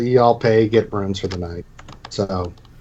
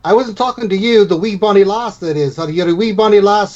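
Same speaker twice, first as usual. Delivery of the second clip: put-on higher, doting tavern keeper cooing at a child; innkeeper voice; 7 semitones higher than usual. Innkeeper teasing a party member, then fawning over the girl. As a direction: gush over the little girl.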